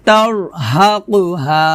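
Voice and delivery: তারহাকুহা with the second র thick and full; heavy second ra. Shown as a demonstration. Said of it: "র সেকেন্ডটা মোটা হবে". (তারহাকুহা-র দ্বিতীয় র মোটা করে)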